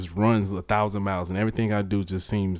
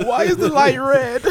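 laughing mockery; 6 dB louder, slower than usual. Mocking friend's silly crying reason.

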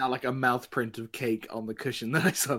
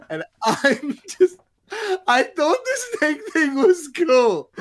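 heartbroken plea; 5 semitones higher, 7 dB louder than usual. Acted. Pleading with Mister Swackhammer, upset.

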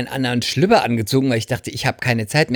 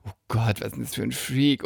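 a quiet oh-god of disgust; disgusted mutter; 7 dB quieter than usual. Retold or imitated. The waiting women judging him, soft and disgusted.

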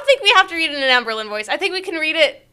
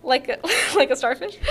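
laughing while reading; 6 dB quieter, faster than usual. Real, not acted.

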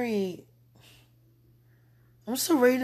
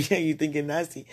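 imagined God's verdict; 6 semitones lower than usual. Pretend. Woman imagines God judging her thoughts, low mock verdict. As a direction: lower mock pronouncement.

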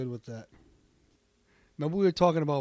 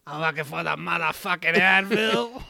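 Samuel L. Jackson impression; 3 dB louder than usual. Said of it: "I can't do a Samuel Jackson".

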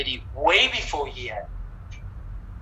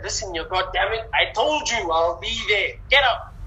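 angry through clenched teeth; 3 semitones higher than usual. Retold or imitated. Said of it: "he's clenching his teeth already".

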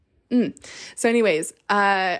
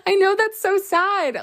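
higher laughing aside; 11 semitones higher, slower than usual. Real, not acted. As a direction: giggle it out, slowed down. Laughs at her own excitement.

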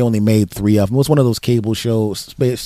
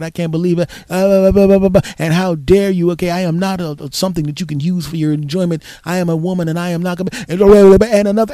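higher and louder, hammering each phrase; furious tirade; 7 semitones higher, 4 dB louder than usual. Retold or imitated. Woman scolding sexist clerks, acted as a furious tirade. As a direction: blast them like an outraged woman. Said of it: "she literally blasted them in that language".

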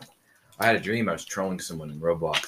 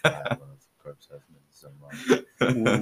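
cracked voice; 4 semitones higher, slower than usual. Pretend. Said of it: "your voice instantly cracked".

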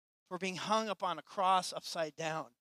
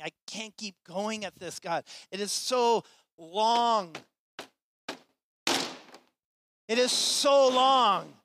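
desperate, drawn-out pleading, much higher and louder; anguished cry to God; 7 semitones higher, 12 dB louder, slower than usual. Acted. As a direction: cry out in exhaustion, stretching each word. Disciples crying out to God.

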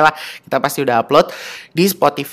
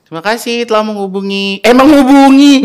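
bright, high, loud call-centre greeting; customer service voice; 7 semitones higher, 8 dB louder than usual. Acted. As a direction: answer like a phone operator. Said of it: "gue berasa lagi telepon sama customer".

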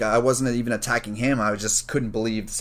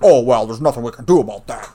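dismissive TA; 8 dB louder than usual. Retold or imitated. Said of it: "He's like".

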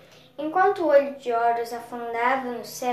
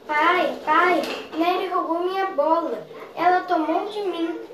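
put-on a boy yelling for his father, raised and high; shouting; 5 semitones higher, 4 dB louder than usual. A narrator's reading. Little boy shouting to his father about his stolen ball. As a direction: call out to Dad, complaining loudly. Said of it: "O menino gritou".

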